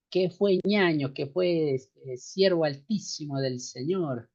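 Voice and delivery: light imitation of a coastal Ecuadorian accent; a half-hearted try at sounding costeño from the Ecuadorian coast. Teacher imitates a coastal Ecuadorian brother, light costeño accent. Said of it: "voy a tratar de imitar".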